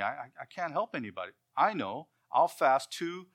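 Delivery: understated earnest resolve; humble poor believer. Retold or imitated. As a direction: speak as a poor Christian giving food money away. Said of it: "are saying".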